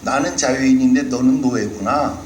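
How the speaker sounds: Goliath jeering at the Israelites, mocking. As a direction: gloat over the slaves of Saul. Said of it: "그가 조롱하는 소리가".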